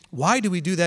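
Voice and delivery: calm, open "Why do we do that?" asked to learn; genuine curious question. Shown as a demonstration. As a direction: ask humbly, wanting to understand. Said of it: "It sounds just like a tone of voice thing".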